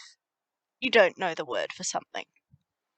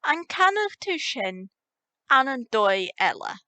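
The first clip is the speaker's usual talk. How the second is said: slow demo; 5 semitones higher than usual. Shown as a demonstration. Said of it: "So you say".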